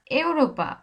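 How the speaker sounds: ইউরোপা said as এউরোপা, opening on এ; Spanish pronunciation. Shown as a demonstration. Teacher showing how Spanish E sounds in a word: careful. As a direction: Europa with a clear e sound. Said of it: "এর মতো করতেছি".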